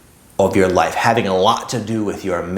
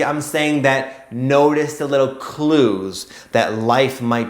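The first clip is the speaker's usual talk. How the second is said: slow emphatic; 3 semitones higher, much slower than usual. Real, not acted. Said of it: "slow emphatic coaching close".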